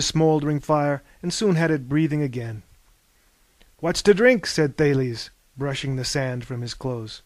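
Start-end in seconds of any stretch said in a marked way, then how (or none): 3.8-4.5 keen high question; eager. A narrator's reading. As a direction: ask eagerly for a drink. Thales jumps up after fall.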